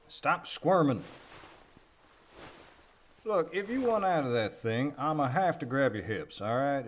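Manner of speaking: strained loud. Acted. Pulling her out, she kicks.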